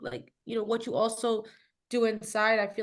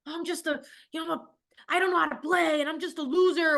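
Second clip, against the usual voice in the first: imitating son; 5 semitones higher than usual. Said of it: "he's a sore loser".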